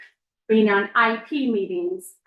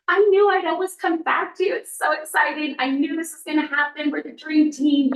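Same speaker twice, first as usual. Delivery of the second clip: excited; 5 semitones higher than usual. Retold or imitated. Quoting the director's excited welcome.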